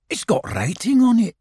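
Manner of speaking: high, self-important; Rabbit. Acted. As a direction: state the obvious grandly.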